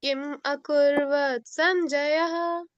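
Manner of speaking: slow, measured chant for pupils to echo; slow lead recitation. Shown as a demonstration. Teacher leading pupils in echo recitation, slow and measured. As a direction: lead the line slowly, leaving room to repeat. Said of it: "आपको बोलना है मेरे साथ".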